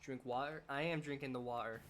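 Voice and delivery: lightly attempted British accent; bad British accent. Streamer playfully answering about drinking water, bad British accent. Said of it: "that was a bad British accent".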